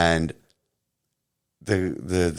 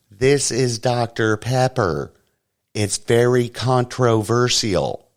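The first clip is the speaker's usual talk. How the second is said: slow, over-enunciated mock voice, slightly higher; sounded out slowly; 4 semitones higher, slower than usual. Woman handing the kid a soda, mocked slow and over-clear. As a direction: spell it out carefully like to a small child. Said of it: "why would you sound it out so clearly".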